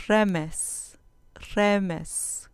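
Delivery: "Remes" said RE-mes, stress on the first syllable. Shown as a demonstration. Teacher models Hebrew "Remes" for students, stress on RE. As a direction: hit the RE of "Remes", light on "mes". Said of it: "con acento en la penúltima sílaba".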